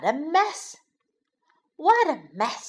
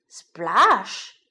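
loud, lower sudden splash word; splash exclamation; 4 semitones lower, 5 dB louder than usual. A narrator's reading. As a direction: burst out with the splash. Bunny falls into the bath.

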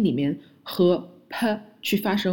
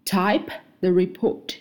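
slow model sentence; slower than usual. Shown as a demonstration. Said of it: "第二句".

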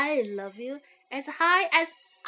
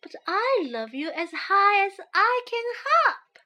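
smiling; 5 semitones higher, 3 dB louder than usual. Acted. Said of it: "smiled Big Nut Brown Hare".

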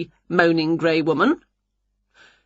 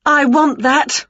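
eager witch; 7 semitones higher, 4 dB louder, slower than usual. A narrator's reading. Witch voiced in story.

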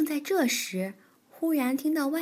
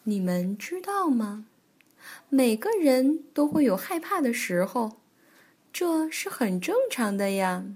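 Granny Bear. Acted. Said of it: "熊婆婆说".

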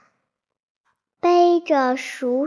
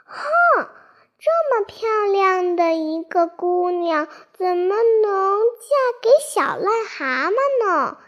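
high, fast indignant huff; 5 semitones higher, 3 dB louder, faster than usual. Acted. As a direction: protest the injustice, fast. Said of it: "鱼儿很抱不平".

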